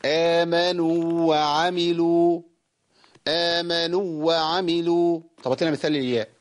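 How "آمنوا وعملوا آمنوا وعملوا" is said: slow, with the long waw of "آمنوا" held full; "آمنوا وعملوا" recited slowly with the u held two beats; correct recitation. Shown as a demonstration. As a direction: let the madd waw of "آمنوا" ring before "وعملوا". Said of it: "طلعت مظبوط إزاي".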